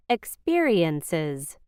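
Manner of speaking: "Experiences" with no puff of air on the p; "Experiences" slowly, with an unaspirated p. Shown as a demonstration. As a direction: keep the p after s in "Experiences" free of extra breath. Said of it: "we do not aspirate the sound".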